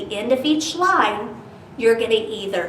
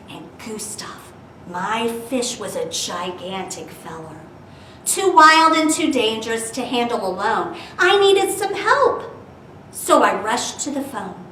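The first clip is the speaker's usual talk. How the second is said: put-on lively read-aloud for kids; storybook reading; 3 dB louder than usual. Teacher reading Dr. Seuss rhyme to children, lively.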